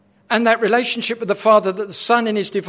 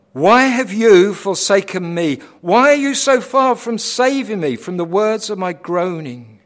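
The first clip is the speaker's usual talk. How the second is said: anguished cry; 3 semitones higher, 7 dB louder than usual. Acted. Preacher voicing Christ's cry.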